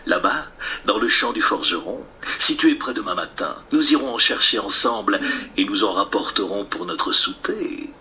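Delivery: lightly voiced low wolf; coaxing wolf. Wolf lures the pig to a turnip field, lightly coaxing low voice.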